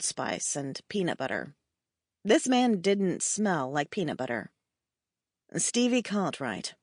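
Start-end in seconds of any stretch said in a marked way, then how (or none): 5.5-6.7 put-on slow, refined British accent; a hint of a British gentleman asking her name; cultured British accent. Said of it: "he asked in a cultured British accent".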